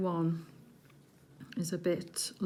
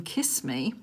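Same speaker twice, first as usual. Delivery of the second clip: breathy whispered kiss me; playful whisper; 3 semitones lower than usual. Pretend. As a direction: tease it in a whisper. Reads the sweet's message.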